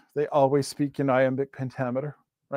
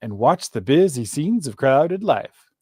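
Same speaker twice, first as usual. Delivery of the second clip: lilting, strongly stressed iambic beat; poetry read aloud to show off its rhythm; metered verse recitation. Shown as a demonstration. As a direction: read the couplets with a pronounced rise-and-fall beat. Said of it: "I was kinda giving it away in the way".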